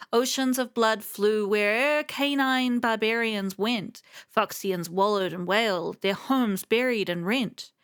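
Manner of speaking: measured storytelling read of a lament; poem reading. Acted. Streamer reading the Foxian lament aloud, in measured poem recitation. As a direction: recite it like an old ballad.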